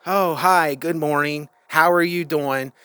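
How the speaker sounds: mock a routine social greeting; conditioned small talk. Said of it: "to talk like that".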